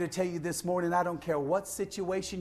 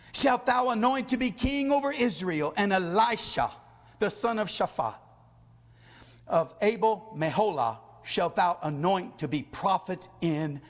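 measured, raised pulpit reading; scripture reading; 3 semitones higher than usual. Acted. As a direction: read God's command out to the congregation. Reads scripture aloud with force.

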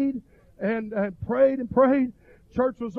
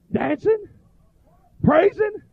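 high, loud single-word exclamations; rousing preacher's list, word by word; excited build; 10 semitones higher, 7 dB louder, slower than usual. Retold or imitated. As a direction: call out each word higher and louder. Listing congregation's rising frenzy.

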